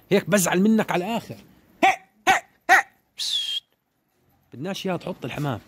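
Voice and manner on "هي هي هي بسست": sharp high hey hey to drive the flock; calling out. Real, not acted. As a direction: shout the birds into the air. Calling out to the pigeons.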